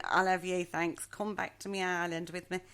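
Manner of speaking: half-hearted mock Irish accent. Storyteller voicing a smitten island girl, in a mock Irish accent. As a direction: have a go at a light Irish accent. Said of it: "That was my Irish accent".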